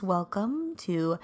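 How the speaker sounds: slow, deliberate radio host intro; mock radio announcer welcome. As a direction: announce it like a DJ on air. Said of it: "It's my radio voice".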